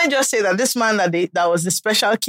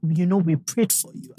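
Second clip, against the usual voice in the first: grandmother's voice; 4 semitones lower, 4 dB quieter than usual. Retold or imitated. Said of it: "she just said".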